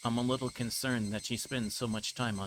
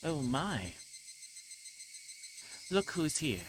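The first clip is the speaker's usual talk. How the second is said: put-on higher, teasing girl's voice; playful little girl; 5 semitones higher, slower than usual. Young girl greeting the brother her trap caught, teasing. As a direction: sing it out, pleased to catch him.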